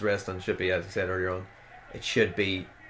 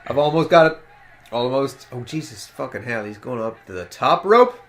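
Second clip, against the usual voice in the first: wrestling commentator; 6 dB louder than usual. Retold or imitated. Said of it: "You know, like".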